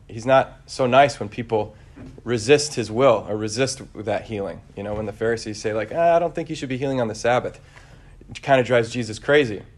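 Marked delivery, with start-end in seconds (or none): 5.9-7.6 higher, quick mock grumbling; mock Pharisee objection. Pharisees object to healing on the Sabbath, mock disapproval. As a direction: object like a fussy critic, played lightly.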